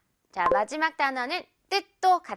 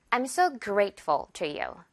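slow demo; 2 semitones lower, much slower than usual. Shown as a demonstration. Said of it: "예문 볼까요".

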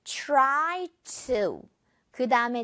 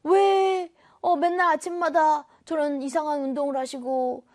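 puzzled. Acted. Acts out puzzled child wondering about dad.

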